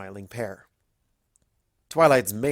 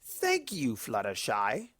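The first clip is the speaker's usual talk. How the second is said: smiling; 6 dB quieter, slower than usual. A narrator's reading. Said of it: "Discord said with a smile".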